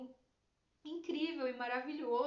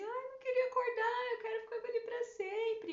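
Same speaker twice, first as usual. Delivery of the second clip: high, tearful imitation of herself crying on waking; retold crying; 12 semitones higher, 4 dB louder than usual. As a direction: replay the tearful plea, pitched up. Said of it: "e eu chorava". (choro imitado, voz aguda)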